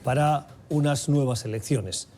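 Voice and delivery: measured news-anchor delivery, lifting key phrases; news read. Acted. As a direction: present the headline story to listeners, deliberately paced. Reads the news intro. (lectura de noticiero)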